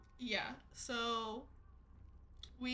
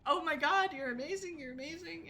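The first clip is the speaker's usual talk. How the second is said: high, loud gushing; excited fan squeal; 6 semitones higher, 5 dB louder than usual. Retold or imitated. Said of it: "she was like".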